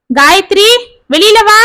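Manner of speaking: mother calls daughter-in-law out, amused; laughing call. Acted. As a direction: summon her cheerfully from the bedroom. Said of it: "சிரித்து கொண்டே அழைக்க".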